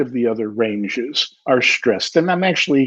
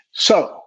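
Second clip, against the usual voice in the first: SO set apart with weight; accented SO; 5 semitones higher than usual. Shown as a demonstration. Teacher demonstrating an accent on one word, accented. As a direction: put a light accent on SO. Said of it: "if I accent that word so".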